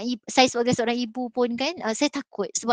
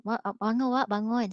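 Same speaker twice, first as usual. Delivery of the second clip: gentle wake-up; 5 dB quieter than usual. Retold or imitated. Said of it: "saya kejut dia dengan keadaan yang baik".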